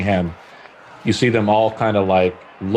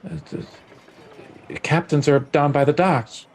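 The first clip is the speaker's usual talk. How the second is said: high, vacant dull-witted voice; dim-witted clerk; 7 semitones higher than usual. Acted. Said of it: "Intelligence one hundred".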